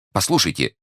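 exasperated cry. A narrator's reading. Merchant beside himself interrupts the commissioner, crying out. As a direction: cut in, at the end of your patience. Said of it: "крикнул выведенный из себя купец".

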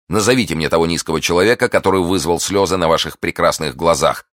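lightly voiced gallant, urgent and quick; ardent young gallant, demanding. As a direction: press her eagerly for the name. Narrator voices the ardent suitor. (пылкий влюблённый, настойчиво)

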